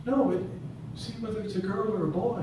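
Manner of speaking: high-pitched midwife's prompt. Retold or imitated. Midwife correcting the father.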